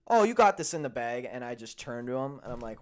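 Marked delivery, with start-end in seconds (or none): 0.1-1.3 higher, much louder mock cheer; mock-upbeat "Oh, you got this in the bag"; mocking jinx voice. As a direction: ham up the roommate's jinx. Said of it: "the whole".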